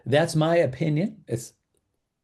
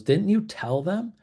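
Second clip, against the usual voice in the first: higher-pitched, mock indignant seller; indignant questioning; 8 semitones higher than usual. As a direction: voice a mildly affronted question, pitched up. Seller voiced confronting the listing agent.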